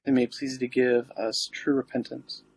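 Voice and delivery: prayer. Acted. Recites the litany.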